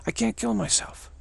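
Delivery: high, brash mock boast; mock Trump boast. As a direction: toss it off like an unkillable showman. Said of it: "what he's really saying is that".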